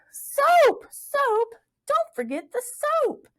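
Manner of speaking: high joyful crying out; excited cry. A narrator's reading. Plug crying out the word he remembered. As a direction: call it out delighted. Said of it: "he cried".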